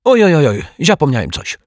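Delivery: high, loud mock dismay; hammed-up foreign guest exclaiming; theatrical Turk. Turk theatrically pretends sudden forgetting.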